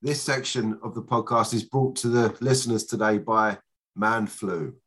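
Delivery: stuffy voice from a cold; man flu voice. Real, not acted. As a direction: talk through a heavy head cold. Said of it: "sorry if it sounds like a cou".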